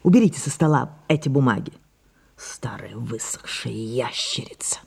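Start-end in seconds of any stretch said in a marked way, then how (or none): 2.4-4.8 soft whisper to herself. Acted. Sarah, alone with her papers, whispering about herself. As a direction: breathe it out, almost no voice.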